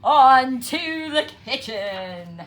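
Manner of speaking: very loud, slow cry; cried. A narrator's reading. Fox crying out as he drives off, loud. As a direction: shout it in triumph. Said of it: "and cried".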